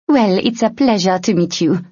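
charming thief, grinning; smiling. A narrator's reading. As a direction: say it with a smile.

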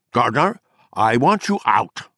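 a stern host throwing a guest out; stern order. Acted. Arberg ordering Gardner out.

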